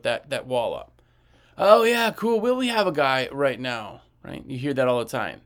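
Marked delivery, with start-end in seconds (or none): 1.6-4.0 "Oh, yeah", bright and loud, then brushing it off; dismissive customer. Retold or imitated. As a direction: play the customer putting the wall up.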